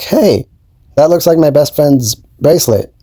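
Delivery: a light put-on squeal of surprise; imitating Lily. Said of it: "she's like".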